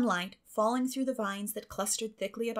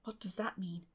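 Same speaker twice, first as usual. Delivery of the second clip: whisper; 9 dB quieter than usual. Acted. Stunned at finding the brooch.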